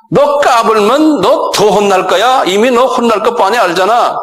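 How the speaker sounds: wagging-finger taunt; mocking threat. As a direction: scold him like a bratty kid. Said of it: "쉽게 말하면요".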